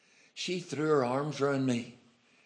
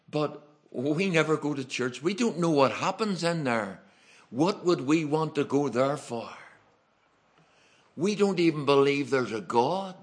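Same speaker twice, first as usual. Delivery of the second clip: louder, higher, incredulous protest; husband objecting; 4 semitones higher, 6 dB louder than usual. Retold or imitated. Husband refusing to go to church, raised incredulous voice. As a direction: push back hard, like a skeptical husband.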